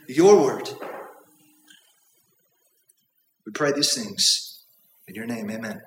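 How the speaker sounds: earnest prayer with long pauses. Real, not acted. Leads the congregation in prayer.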